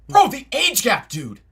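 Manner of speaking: loud, high, outraged shout; outraged yelling. Acted. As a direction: yell it in disbelief. Outraged reading demo.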